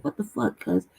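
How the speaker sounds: normal talking voice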